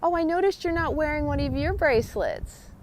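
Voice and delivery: high, cheerful hello to a cashier; bright friendly greeting. Retold or imitated. Greeting the grocery cashier by name, cheerful and high. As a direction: greet her like an old friend, lifted and bright. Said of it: "I like to say".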